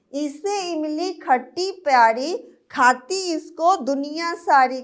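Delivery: sing-song nursery rhyme; poem recital. Acted. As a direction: recite the rhyme for small kids. Teacher recites tamarind poem. (बच्चों के लिए लय में कविता)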